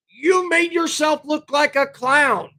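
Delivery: ordinary talk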